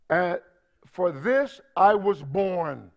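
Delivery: slow, weighty "for this I was born"; preacher quoting Jesus, slow and emphatic. Acted. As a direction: lean on "this", drawn out and deliberate. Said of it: "That's very emphatic".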